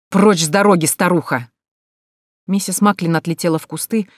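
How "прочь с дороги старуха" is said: contemptuous order, pushed out hard; rough angry shout. Acted. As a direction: shove her aside with a louder bark. Man shoves old woman aside. (грубый злой окрик)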